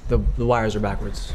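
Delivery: loud call across the room. Real, not acted. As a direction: call it out so they hear. Calling over to someone off mic.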